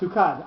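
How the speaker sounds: TO CUT with the weight on "cut"; stress on last syllable. Shown as a demonstration. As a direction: land firmly on "cut" at the end. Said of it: "on the last syllable".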